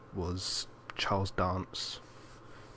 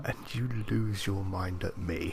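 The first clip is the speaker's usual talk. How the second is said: whisper. Real, not acted. Teasing aside, whispered.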